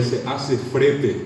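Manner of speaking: "frete" drawn slowly, R replacing the L of flete; R in place of L. Retold or imitated. Reading out a campus sign, slow "frete" for flete. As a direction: read "frete" slowly with a tapped R. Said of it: "un letrerito decía".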